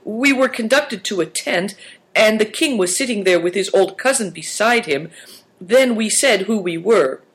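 put-on high-pitched boy explaining himself; apologetic young narrator of events; Christian. A narrator's reading. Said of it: "Christian explained apologetically".

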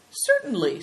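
high, friendly assent; amiable. Acted. Naidong letting Big Tiger speak, amiable. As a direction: agree pleasantly, voice lifted. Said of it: "said Naidong amiably".

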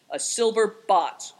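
slow, loud, grudging answer; mild, drawn-out growl. A narrator's reading. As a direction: growl it out slowly. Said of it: "growled the man".

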